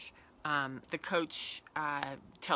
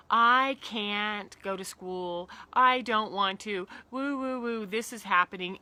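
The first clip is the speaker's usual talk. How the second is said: put-on slow, louder whiny kid, emotions up; upset kid; 2 semitones higher, 9 dB louder than usual. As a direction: act out a child overwhelmed. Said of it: "there's emotion".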